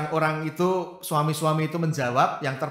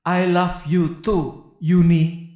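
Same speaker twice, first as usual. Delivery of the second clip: slow, drawn-out reply; deliberate punchline delivery; 4 dB louder, much slower than usual. Acted. Husband's text reply read out by his hurt wife, slow and deliberate. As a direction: stretch each word, landing louder on the name.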